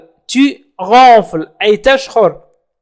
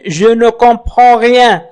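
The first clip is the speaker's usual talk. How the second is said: slow model phrase; much slower than usual. Shown as a demonstration. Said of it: "teacher models French phrase".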